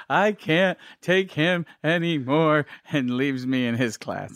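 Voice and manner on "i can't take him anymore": slow, mock-tearful nun voice; imitating a sobbing nun, slowly; crying nun. A nun in tears handing off a first grader, slow mock sob. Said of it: "like, going".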